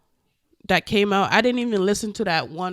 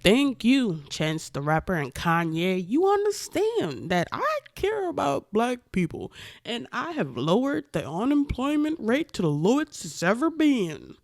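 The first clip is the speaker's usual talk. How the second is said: higher-pitched, swooping mock politician voice; Donald Trump impression; 5 semitones higher than usual. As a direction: put on an exaggerated accent as the self-congratulating president. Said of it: "I don't know why I just did that accent".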